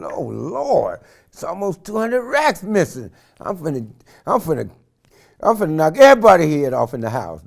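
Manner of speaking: loud, furious retold threat; angry rant. Man raging at family over missing money, furious yelling. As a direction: rage about the stolen money.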